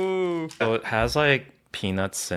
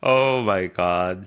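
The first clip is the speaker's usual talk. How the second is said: excited; 7 dB louder, much slower than usual. Real, not acted. Seeing adorable baby photos.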